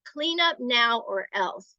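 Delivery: slow, mildly threatening order; aggressive threat. Shown as a demonstration. Adult ordering a child to clean up, mild demonstrated threat. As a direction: spell out the warning slowly. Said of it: "sounds like a threat".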